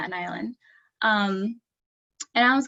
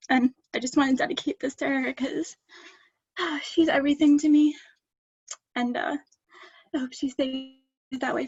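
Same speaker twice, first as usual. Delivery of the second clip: real crying; 5 semitones higher than usual. Real, not acted. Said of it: "Sorry, I'm emotional".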